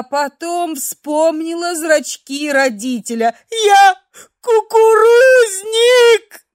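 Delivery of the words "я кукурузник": very high, loud crying wail; a sobbing girl wailing to the men; tearful wail. A narrator's reading. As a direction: howl it out sobbing.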